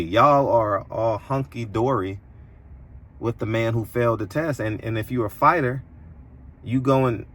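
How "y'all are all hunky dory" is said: Y'all stressed and slowed, hunky-dory drawn out; pointed correction, y'all not we. Shown as a demonstration. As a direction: lean hard on Y'all to correct yourself. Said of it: "Not we".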